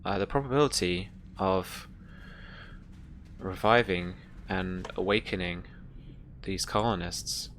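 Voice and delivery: lightly voiced ship computer, measured with long pauses. Ship computer Mother reports on colonists' pods, lightly voiced measured computer. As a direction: deliver it haltingly, like a computer reporting status.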